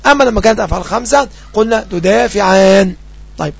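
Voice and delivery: usual speaking voice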